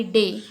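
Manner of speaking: डे with the long ay vowel drawn out slowly; stretched long a. Shown as a demonstration. Teacher stretching डे to show the long vowel. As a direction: pull the vowel of डे long for the class. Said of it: "इसको खींच रहे हैं".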